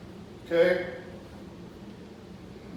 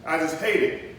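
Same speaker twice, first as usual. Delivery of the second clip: louder, mildly hammed-up student gripe; mock anger; 4 dB louder than usual. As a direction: act out a fed-up pupil griping about school. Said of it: "His tone is probably gonna be anger".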